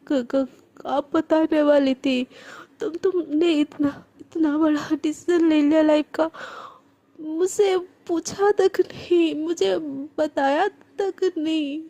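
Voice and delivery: put-on slow, choked words of a hurt girl, half whispered; tearful and hurt. Hurt girl tells her best friend she never told her, tearful. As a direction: hold back the tears as you speak. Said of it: "Priyanka एकदम रोते बोलती है".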